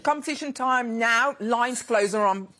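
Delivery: talking through a mouthful of food; mouth full. Real, not acted. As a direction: speak round a bite of food. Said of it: "I've still got my mouth full".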